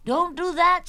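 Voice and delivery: high, loud mock alarm; alarmed protest. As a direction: cry out to stop the child. Mother stops the explosive threat.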